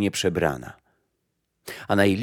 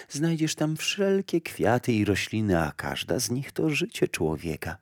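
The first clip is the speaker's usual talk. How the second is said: a lightly voiced, softer lake; lake speaking; 5 dB quieter than usual. Lake tells the mother she cannot drink it, softly. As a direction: let the lake refuse gently.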